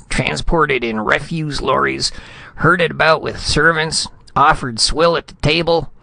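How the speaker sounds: indignant tirade, breaking off. A narrator's reading. Insulted ambassador listing grievances to Retief, high and indignant. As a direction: rant on in wounded dignity until words fail. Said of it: "Spradley's voice broke".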